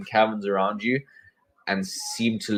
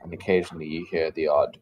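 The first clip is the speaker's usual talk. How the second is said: game master's scene setting. Acted.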